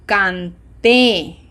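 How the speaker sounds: very slow, syllable by syllable, leaning on the accented syllable; slow repeat-after-me. Shown as a demonstration. Teacher leading learners through the conjugation, slow and deliberate. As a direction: model it slowly with gaps between words. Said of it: "as slowly as I do".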